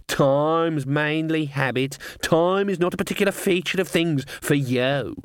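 slow, knowing raven voice; raspy cawing crow. Acted. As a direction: croak it out like a wise old raven. Raven character voice.

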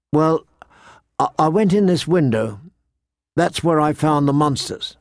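put-on a girl haltingly owning up; young girl Arya, hesitant.

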